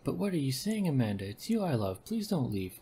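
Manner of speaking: pleading character voice. Acted. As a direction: beg her not to leave. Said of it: "giving them the same voice".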